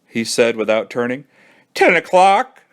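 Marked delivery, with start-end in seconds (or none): 1.7-2.6 near tears. Acted. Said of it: "as if he was going to cry".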